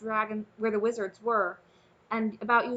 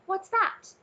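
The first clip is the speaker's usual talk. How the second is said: startled question; 10 semitones higher, 4 dB louder than usual. Acted. Alienora startled by cheering.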